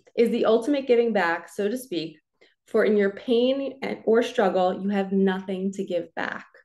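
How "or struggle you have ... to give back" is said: normal talking voice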